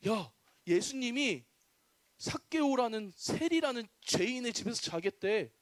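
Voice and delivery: mildly disapproving gossip, at normal volume; grumbling crowd. Acted. Townspeople complain about a tax collector hosting Jesus, mild grumbling. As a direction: spread the news aloud as a mild complaint. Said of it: "이러면서 막 욕하기 시작했어요".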